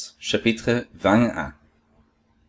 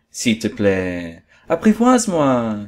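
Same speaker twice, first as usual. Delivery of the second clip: pleading. Acted. Fox begs to be tamed.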